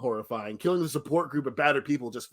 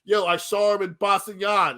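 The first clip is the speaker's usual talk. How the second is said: lightly put-on Boston accent, higher pitch; mock a Boston local's accent; a hint of hammed-up Boston accent; 5 semitones higher than usual. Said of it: "if this was Boston, everybody would be like".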